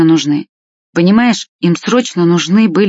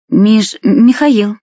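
hesitant stumble; 4 semitones higher, 3 dB louder, much slower than usual. A narrator's reading. Boy stumbling over his name.

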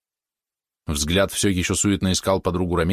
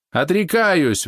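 much higher, loud squeal; взвизгнула; shrieked; 11 semitones higher, 3 dB louder, much slower than usual. A narrator's reading. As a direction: scream the word out. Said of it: "взвизгнула затея".

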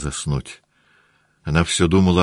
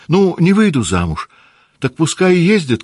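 high, louder wilful retort; defiant girl; 11 semitones higher, 5 dB louder than usual. Acted. Наташа упрямо отвечает матери высоким голосом. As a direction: toss it off, high and headstrong. Natasha's defiant girlish reply.

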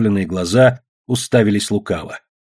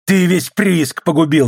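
accusing cry, slower at the end; indignant yell, a bit raised; angry shout; 3 semitones higher, slower than usual. A narrator's reading. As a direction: hurl the accusation at the traitor. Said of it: "закричал Жеребцов".

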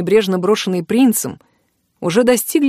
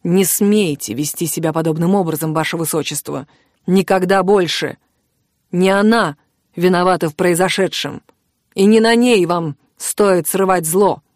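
quiet fury. Acted. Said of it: "гораздо тише, но не менее гневно".

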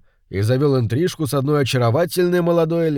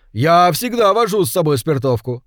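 lightly voiced man, raised pitch; man explaining himself; 5 semitones higher, 4 dB louder than usual. Suspect explains his spirit stove, slightly insistent.

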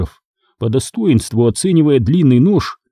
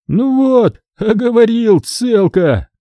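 satisfied purr; 10 semitones higher, slower than usual. Acted. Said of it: "удовлетворённо заурчал Цыбик".

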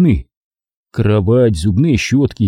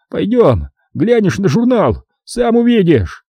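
high, excitable caretaker rant; caretaker grumbling; 9 semitones higher than usual. A narrator's reading. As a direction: rattle off excuses, getting bolder. Caretaker inviting. (смотритель высоким голосом оправдывается)

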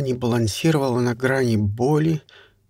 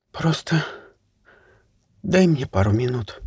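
trembling whisper. Acted. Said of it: "дрожащим голосом прошептала Кай". (дрожащий шёпот)

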